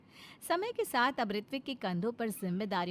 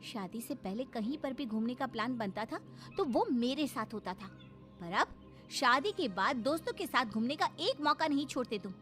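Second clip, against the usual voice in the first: swooping, reproachful complaint; aggrieved wife; 5 semitones higher than usual. Acted. Wife to husband going off with friends, resentful. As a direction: scold him bitterly as the wronged wife.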